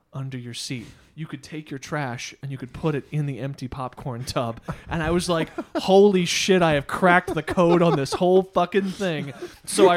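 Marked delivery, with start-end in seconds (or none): 5.8-9.3 excited triumph. Retold or imitated. Triumphant realization.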